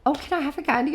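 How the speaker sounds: put-on a kid's hopeful ask; child asking. Shown as a demonstration. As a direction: play the eager kid. Child voiced asking for candy.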